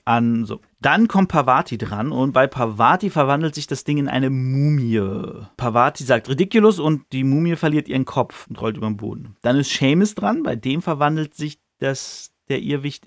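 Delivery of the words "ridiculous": pitched-up mock spell cast; a light, playful spellcasting cry. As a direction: fling the spell out like a nervous kid. Parvati casting the spell.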